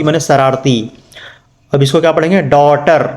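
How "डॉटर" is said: usual speaking voice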